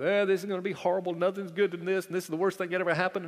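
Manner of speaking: fast, hammed-up doom-and-gloom grumbling; mock gloomy Christian. Pastor mocking Christians who despair when things go wrong, fast mock grumble. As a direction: rattle off the complaints like a fretful worrier. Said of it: "What do we do?".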